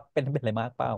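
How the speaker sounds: soft concerned. Retold or imitated. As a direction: ask softly like you really care. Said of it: "อ๋อ ใช้น้ำเสียงนี้เหรอ".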